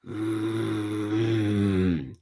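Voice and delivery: low, soft mock tiger rumble; a quiet menacing hum like a tiger; tiger growl. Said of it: "tiger's like".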